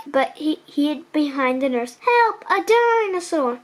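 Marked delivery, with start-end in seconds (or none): 2.0-3.6 frightened cry. Acted. Nurse cries out in fright.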